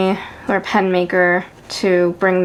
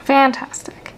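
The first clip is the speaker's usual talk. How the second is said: sarcastic; 4 semitones higher, slower than usual. Acted.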